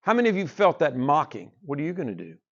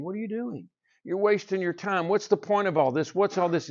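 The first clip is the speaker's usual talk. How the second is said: a light mock taunt, lifted in pitch; Satan mocking; 4 semitones higher than usual. Preacher voices Satan mocking a believer at work, lightly. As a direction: sneer at the worker, half-voiced. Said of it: "Satan comes with that mocking".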